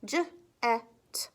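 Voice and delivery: J, e, t spelled letter by letter; sounding out words. Shown as a demonstration. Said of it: "You can just sound out your word".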